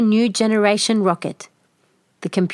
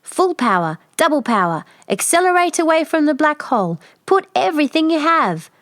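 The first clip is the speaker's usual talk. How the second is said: yelled commands; 8 semitones higher, 3 dB louder than usual. Acted. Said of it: "She yells commands at the computer".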